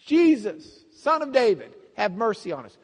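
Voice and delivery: loud, high call that eases toward the end; yelling out. Retold or imitated. Blind men begging Jesus for mercy, yelling out. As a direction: cry out for help over a crowd. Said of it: "are yelling out".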